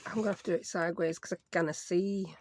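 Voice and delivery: a light accidental Scottish accent, a bit quick; slipping into Scottish. Real, not acted. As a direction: let a hint of Scottish creep in without meaning to. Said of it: "I don't know why I'm speaking Scottish".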